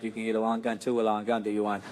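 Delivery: deep, soft put-on sales voice; low secretive dealer. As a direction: make the offer low and hushed. Dealer continues the hushed sales offer.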